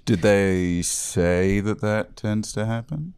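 slow, halting Goldblum-style drawl; Jeff Goldblum. Pretend. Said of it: "I don't know why I said that like Jeff Goldblum".

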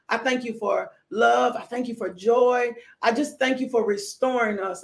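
low, earnest praying voice; preacher prays over the church; closing prayer. Real, not acted.

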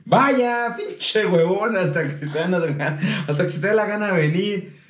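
mock scolding teacher. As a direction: sneer at the lazy kid like a fed-up teacher. Teacher scolds latecomer student.

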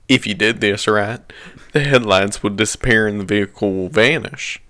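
lightly put-on British accent. Reader continuing the guide on request, mock British accent. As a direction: carry on reading in a mild British accent. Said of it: "In a British accent".

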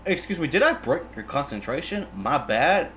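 a hint of a menacing movie hitman; Samuel L. Jackson. Hitman to man he interrupted, mock apologetic. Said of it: "Samuel L. Jackson's just like".

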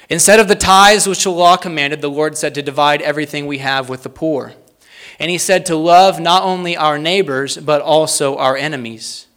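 strong start, measured delivery; deliberate quote reading. Real, not acted. Preacher reads an early Christian quote to the congregation, firm and deliberate. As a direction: read it out firmly, phrase by phrase. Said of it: "read these slowly and succinctly".

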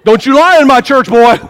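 mock scolding.

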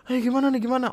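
high-pitched panicked staffer impression; mock panic. Hotel staff reacting to broken lift, mock panicked. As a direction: act out a flustered hotel guard. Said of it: "pada panik".

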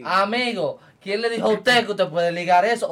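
loud mock lecture to the listener; scolding. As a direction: wag a finger at whoever mixes bleach.

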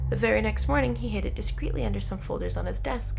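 steady read-aloud storyteller; measured narrator's voice; story narration. A narrator's reading. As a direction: tell the story evenly, clearly phrased.

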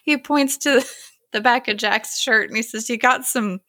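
high, giggly retelling; laughing through the words. Real, not acted. Podcaster retells a gross punchline, laughing. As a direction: tell it while cracking up.

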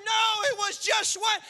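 high, loud, slow celebratory calls; joyful shout. Acted. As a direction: stretch each invitation out with joy. Shepherd inviting all to celebrate.

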